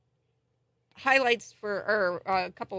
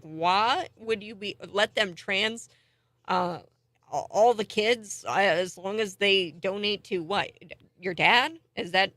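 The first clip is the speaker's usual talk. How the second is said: peeved retort; 2 semitones higher, 5 dB louder than usual. Retold or imitated. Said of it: "I was really peeved off".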